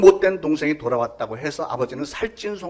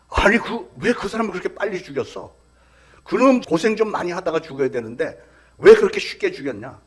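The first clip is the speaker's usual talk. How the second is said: outraged public; 2 semitones higher, 4 dB louder than usual. Retold or imitated. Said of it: "대부분의 반응은".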